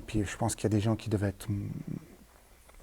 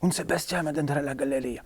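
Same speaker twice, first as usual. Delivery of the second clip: Italian miner; 4 semitones higher than usual. Retold or imitated. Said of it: "il me disait une fois".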